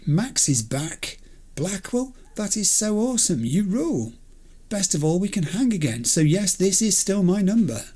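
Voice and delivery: a lightly voiced happy Chloe; excited Chloe text. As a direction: read it like a thrilled best friend.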